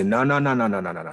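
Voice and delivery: acted interruption, jumping in loud; emphatic cutting-off. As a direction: cut in firmly with rapid-fire no's.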